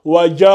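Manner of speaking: "waja'u" with "ja" held very long, then a long "u"; madd lengthening. Shown as a demonstration. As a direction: slowly chant "waja'u", stretching both final vowels. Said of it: "pour l'allonger".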